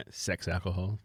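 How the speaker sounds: laughing through the words. Real, not acted. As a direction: giggle out the name. Laughing at misheard phrase.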